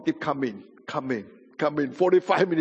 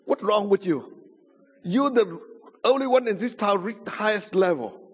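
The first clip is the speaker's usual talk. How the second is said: higher-pitched, emphatic reproach; imitated incredulous rebuke; 5 semitones higher than usual. Witch doctor scolding convert Brother I, imitated incredulous rebuke. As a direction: challenge him in disbelief.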